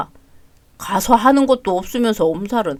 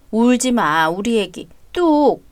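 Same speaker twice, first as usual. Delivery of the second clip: tender comfort; 3 semitones lower, 5 dB quieter, slower than usual. Acted. Mother-in-law comforts crying daughter-in-law.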